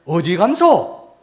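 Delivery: drawn-out question in Jeju speech; Jeju dialect. Retold or imitated. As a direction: ask slowly with a Jeju lilt. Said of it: "제주도 말로". (제주도 말투로 느리게 묻기)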